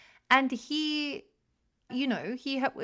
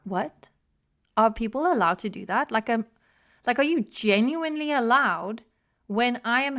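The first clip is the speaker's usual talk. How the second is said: acted-out incredulous indignation; mock outrage. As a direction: replay your disbelief, hammering the key words. Retelling her outrage at phone off.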